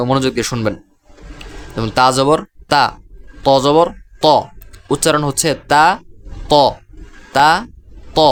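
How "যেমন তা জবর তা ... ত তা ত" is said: slow, clear Arabic letter names; slow careful recitation. Shown as a demonstration. Teacher recites letters slowly so students can copy. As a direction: spell each sound out slowly. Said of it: "আমি উচ্চারণ করছি".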